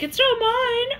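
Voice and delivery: squeaky high mock denial. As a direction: toss it off way up high, disowning it. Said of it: "They're like".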